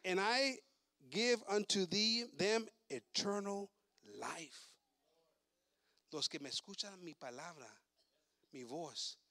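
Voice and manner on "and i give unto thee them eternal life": slow, solemn verse reading; slow scripture reading. Acted. Preacher reading the promise of eternal life, slow. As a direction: draw out the promise slowly.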